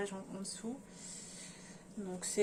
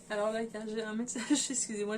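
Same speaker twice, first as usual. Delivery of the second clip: laughing. Real, not acted. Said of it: "je rigole".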